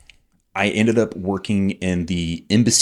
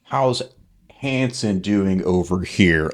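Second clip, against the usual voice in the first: put-on baby voice; much slower than usual. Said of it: "like, baby voice".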